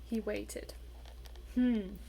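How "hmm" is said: small voice. A narrator's reading. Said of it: "said a small voice in his ear".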